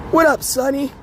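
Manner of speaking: rough, raspy smoker's voice. Real, not acted. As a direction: talk through a smoker's rasp. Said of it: "I'm on my smoker's voice".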